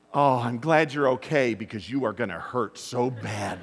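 chuckling through a mock scolding; laughing parent joking to the son; laughing mock threat.

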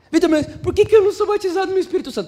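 mock protest, high and loud; imitating a complaining questioner. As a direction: demand an answer as an exasperated churchgoer. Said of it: "chegaram em mim e falaram assim".

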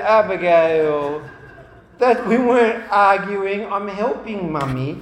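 loud, high-pitched exasperation; exasperated protest. Retold or imitated. Dad explaining to daughter he was helping, exasperated. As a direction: protest innocence at full voice.

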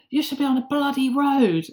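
imitating the rude stranger's grumble; half-hearted angry retort; mock angry man. Angry stranger repeats himself.

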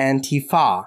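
Antifa with the stress on "fa"; stress on last syllable. Shown as a demonstration. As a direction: land on the final syllable of Antifa. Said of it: "Emphasis on the fa".

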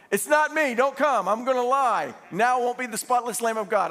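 hammed-up high-pitched protest; mock dilemma. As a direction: blurt it out in pretend alarm. Imagined panicked reply from Jesus.

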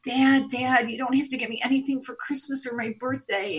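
lightly voiced son begging his dad; imitating a begging boy. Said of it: "my son was begging him and just saying".

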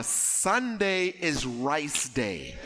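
slow, emphatic declaration, hammed-up; imitating mother. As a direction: proclaim it like a stern West Indian mother. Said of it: "This is my mother".

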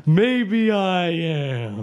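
slow, drawn-out dramatic line; milk it for drama. Acted. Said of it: "I was being dramatic".

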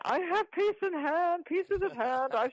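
put-on orate it like an old newsreel; old newsreel Chamberlain. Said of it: "if you've ever watched the old newsreels".

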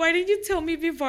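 high-pitched, exasperated protest; retold panic. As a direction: replay your panicked complaint to a sister. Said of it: "panicking and everything".

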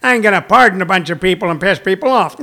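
mustache-twirling villain voice; Trump. Retold or imitated. Comic imagining the president twirling a mustache, villain voice. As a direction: put on a sneering cartoon villain. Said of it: "too bad Trump has a mustache".

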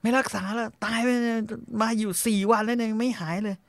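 high, mocking voice of a callous uncle; mocking the old man. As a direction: sneer it out like the heartless guy at the vet. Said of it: "บอกว่า".

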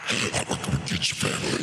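creepy demon voice. Pretend. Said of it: "he goes right to that?".

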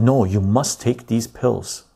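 slow, measured mock-official command; government order. Government ordering a patient to take pills, slow mock command. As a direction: lay down the rule slowly, word by word. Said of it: "what if the government came in and said".

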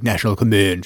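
lightly mimicked low, official captain; deep voice. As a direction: drop into a low commander's voice. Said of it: "He's got a real deep voice".

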